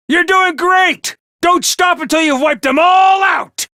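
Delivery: cheering from the sidelines; rousing cheer. Acted. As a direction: fire them up to keep fighting. Commander cheers troops during battle.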